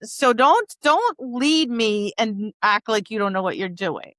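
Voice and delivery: mildly bossy, voicing a fed-up dog; mock annoyance; annoyed dog. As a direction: tell off a useless handler, lightly acted.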